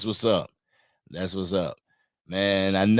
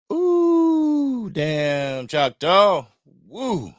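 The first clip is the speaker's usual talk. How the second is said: surprised; 9 semitones higher, much slower than usual. Real, not acted. Reacting to a chat message.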